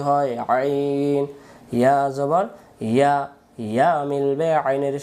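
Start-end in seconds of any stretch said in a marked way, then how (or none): 0.5-1.2 long drawn-out "আইন" begun with a squeeze in the mid-throat; slow Arabic letter name "আইন", pharyngeal onset; pressed throat ain. Shown as a demonstration. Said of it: "একটু চেপে পড়তে".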